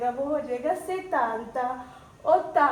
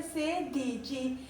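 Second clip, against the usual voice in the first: slow model word; 6 dB quieter, much slower than usual. Shown as a demonstration. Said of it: "सिक्सटीन को क्या बोलते हैं".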